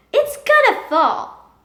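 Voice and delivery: a sister sure it will topple; slow teasing sibling voice; doubtful little sister. Acted. Sister doubts the card tower.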